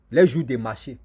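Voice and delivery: usual speaking voice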